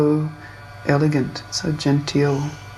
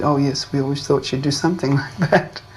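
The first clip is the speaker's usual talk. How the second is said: imitating an embarrassed father's nervous chuckle; nervous laughing. Embarrassed father answering the guru about his daughter, nervous laughing. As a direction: retell it with a small laugh breaking in. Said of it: "he started sort of laughing, nervously".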